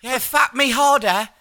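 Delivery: high, loud, slow hammed-up moan; high loud slow mock porn voice. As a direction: ham up a porn line. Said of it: "I was like".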